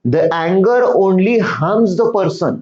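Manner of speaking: each English word read slowly and clearly to pupils; slow reading of the story. Shown as a demonstration. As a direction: read the line word by word for the class. Teacher reads story text slowly. (मुलांना सावकाश वाचून दाखवणे)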